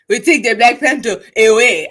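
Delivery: exaggerated Forest Whitaker-style African accent; mock African accent. Roasting an actor's movie line in a mock African accent. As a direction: put on a hammy African accent. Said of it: "the accent".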